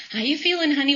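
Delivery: imitated mom's routine question, pitched high; high-pitched imitation of a mother checking in; obligatory mom check-in.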